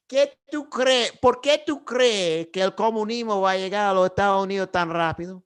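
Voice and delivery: challenging, slowed, pointed question; argumentative tone. Pretend. Pretending to challenge the Cuban lady at the gym, argumentative. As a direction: push back at her like you're ready to debate. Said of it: "that argumentative tone of voice".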